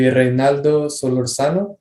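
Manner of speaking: name "Reynaldo Solorzano" said with a light Spanish accent. Shown as a demonstration. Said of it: "if I say it with the Spanish accent".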